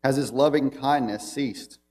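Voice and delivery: measured, solemn reading of the psalm; scripture reading. Acted. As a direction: read it out as holy text to the church. Reads psalm aloud to congregation.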